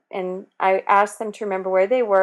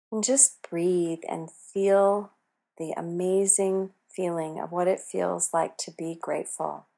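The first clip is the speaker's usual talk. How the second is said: calm meditative tone. Acted. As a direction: ease them into calm breathing. Leads a golden pause meditation.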